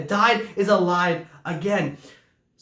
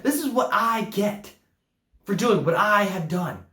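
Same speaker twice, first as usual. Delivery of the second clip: put-on entitled older brother; slower than usual.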